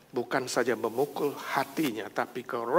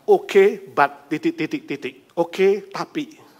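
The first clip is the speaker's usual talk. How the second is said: slow hesitant yes; 4 semitones higher, 6 dB louder, slower than usual. Acted. God's answer, acted out.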